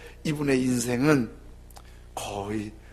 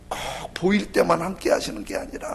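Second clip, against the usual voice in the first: ordinary delivery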